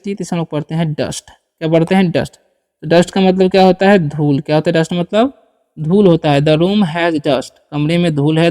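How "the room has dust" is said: very slow, word by word; spelled-out dictation pace; slow model reading. Shown as a demonstration. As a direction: say each word slowly for the class to copy. Teacher models English sentence.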